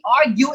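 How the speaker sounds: AR stressed in "argue", falling away after it; first-syllable stress. Shown as a demonstration. Teacher sounding out option C, "argue" stressed on first syllable. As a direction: say "argue" as AR-gue. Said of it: "a first syllable".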